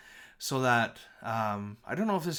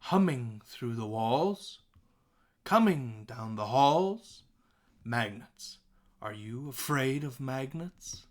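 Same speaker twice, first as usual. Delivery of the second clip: slow, "Coming" leaned on; emphatic slow recital; stressed reading; slower than usual. Shown as a demonstration. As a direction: read with the stresses marked. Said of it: "take a look at the, the new three lines".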